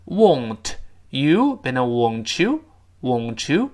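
"won't you" slow, t blending into ch; linked won't you. Shown as a demonstration. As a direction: join "won't you" slowly with a ch sound. ("won't you"慢读连成ch音)

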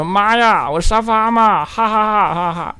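high, loud glee with put-on laughter; hammed-up squeal of triumph, then ha-ha-ha; mock overjoyed. Host reads listener's first-comment message, hammed-up elation.

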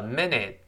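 "minute" slowly with the final t released; slow, careful reading. Shown as a demonstration. Teacher shows slow reading, minute with a clear final t. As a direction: draw out minute and click the t at the end. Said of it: "读慢了叫minute".

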